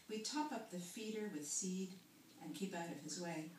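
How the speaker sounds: measured poetry recital with phrase-by-phrase pauses; poem reading. Acted. Poet reading a long garden poem to listeners, measured recital. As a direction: read it as verse, pausing between images.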